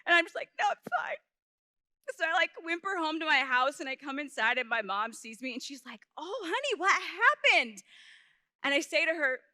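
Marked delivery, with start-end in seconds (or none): 0.6-1.2 put-on tiny high-pitched child's denial; feigned okay. Hurt child brushing off the neighbor's help, high squeaky denial. 6.1-7.8 higher, drawn-out motherly concern; concerned mom. Retold or imitated. Mom sees her child come home hurt, concerned.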